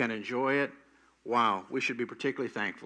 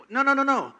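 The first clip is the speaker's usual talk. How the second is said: put-on high, louder old lady protesting; old aunt's protest; 11 semitones higher, 5 dB louder, faster than usual. Old Aunt Bethany refusing to pray, high and loud.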